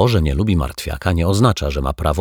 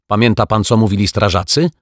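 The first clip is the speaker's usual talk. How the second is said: louder, higher calling; called out; 4 semitones higher, 4 dB louder than usual. Acted. Caretaker calls to Martwiak through the window, louder call. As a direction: call it across the room. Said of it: "zawołał pan Mietek".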